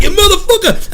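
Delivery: high-pitched reenacted yell; furious scream. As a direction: scream it in road rage. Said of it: "I yelled and screamed".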